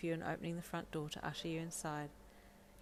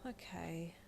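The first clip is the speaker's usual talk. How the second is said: nervous whisper; 7 dB quieter than usual. Acted. Nervous moment before bad news.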